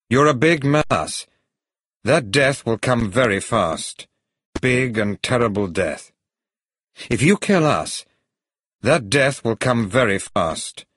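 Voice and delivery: lightly acted defiant warning; defiant captive hero. A narrator's reading. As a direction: throw the threat back at the villain. Bond defies the villain.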